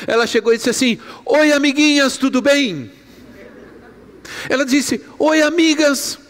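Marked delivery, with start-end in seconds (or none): 1.3-2.9 put-on child's voice. Granddaughter greeting girls. 5.2-6.2 put-on child's voice. Granddaughter greeting, retold.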